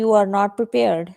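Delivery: drawn-out, careful phrasing; slow model reading. Shown as a demonstration. Teacher models the sentence slowly for the class. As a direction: say each word slowly to be copied. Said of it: "teacher models the sentence".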